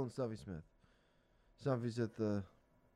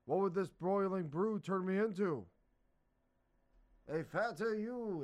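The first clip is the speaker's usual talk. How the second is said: lightly voiced characters; 7 semitones higher than usual. Hagar and wizard voiced.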